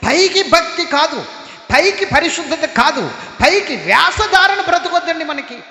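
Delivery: full-voiced pulpit exhortation; preaching shout. Real, not acted. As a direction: drive the warning home to the church.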